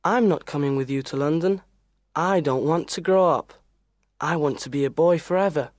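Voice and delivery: low, firm, quick refusal; very serious. Acted. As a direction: refuse seriously as a stubborn boy hero. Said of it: "He is very serious and says".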